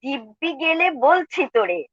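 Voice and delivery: lilting Bangla verse recital, pitch lifted a little; measured, expressive poetry reading; poem recitation. Acted. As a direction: recite it as verse, phrase by phrase with pauses.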